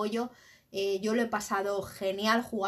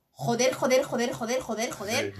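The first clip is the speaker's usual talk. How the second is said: cursing under breath; 2 semitones higher, 5 dB louder than usual. Retold or imitated. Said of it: "realmente sientes ese, dentro el".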